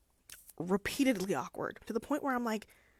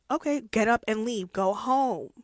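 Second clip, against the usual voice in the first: louder, fed-up order to go home; exasperated telling-off; 2 semitones higher, 6 dB louder than usual. Retold or imitated. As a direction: scold him to just leave. Narrator venting at Lockwood.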